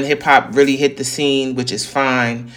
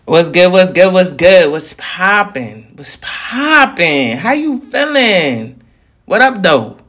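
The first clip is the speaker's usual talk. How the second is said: hype greeting; 4 semitones higher, slower than usual. Real, not acted. Stylized show-opening greeting.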